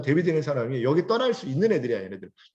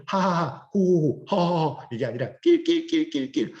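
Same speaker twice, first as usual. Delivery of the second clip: demo of laugh types; 3 semitones higher, slower than usual. Shown as a demonstration. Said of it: "웃음의 느낌이 약간 다르죠".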